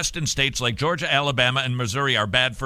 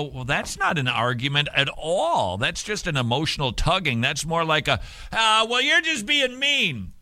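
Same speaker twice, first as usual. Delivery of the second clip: mock whiny liberal. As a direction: mimic an opponent who whines at the end. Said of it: "And you go".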